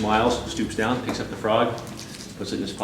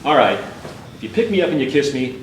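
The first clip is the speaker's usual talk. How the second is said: frustrated; 4 semitones higher than usual. Acted. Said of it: "a more frustrated voice starts to emanate".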